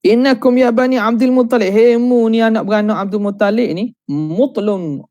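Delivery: mock harsh creditor's scolding; harsh rebuke. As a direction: scold him like a creditor out of patience. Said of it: "dia pun cakap kasar".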